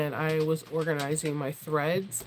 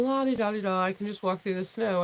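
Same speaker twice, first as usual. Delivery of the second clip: mock-carefree singsong thought, pitched up at the start; 3 semitones higher than usual. Imitating someone thinking they can walk on snow, carefree. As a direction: breeze along, blissfully unaware. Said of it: "you're all thinking".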